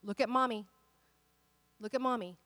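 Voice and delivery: put-on calm a panicked child, gently; mother soothing her panicking daughter, gently; soothing mommy. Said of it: "I said".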